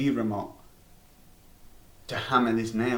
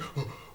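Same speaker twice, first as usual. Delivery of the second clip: mock gasp; 9 dB quieter than usual. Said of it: "Zhivchik was like".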